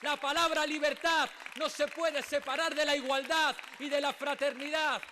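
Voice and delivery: ordinary delivery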